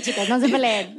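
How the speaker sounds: said through a laugh. Pretend. Host repeats the joke to guests, laughing. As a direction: let the joke dissolve into laughter.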